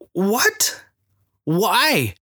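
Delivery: high, sudden startled questions. Retold or imitated. Preacher startled when the stranger says he may cry. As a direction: jump up in pitch, caught off guard. Startled by man nearly crying.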